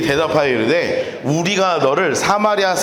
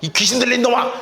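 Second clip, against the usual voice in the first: put-on higher, fast childish taunt; schoolkid squabble; 5 semitones higher than usual. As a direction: sneer like a kid in a playground fight. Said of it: "초등학생들 싸우는 거". (초등학생처럼 높고 빠르게 놀리기)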